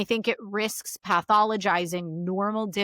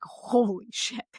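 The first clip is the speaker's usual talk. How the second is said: overwhelmed husband; slower than usual. Retold or imitated. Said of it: "he's just like".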